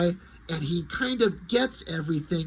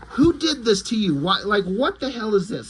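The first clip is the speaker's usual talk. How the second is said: appalled; 2 semitones higher than usual. Acted. Superman sees a kid standing before him, appalled. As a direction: demand it in rising shock.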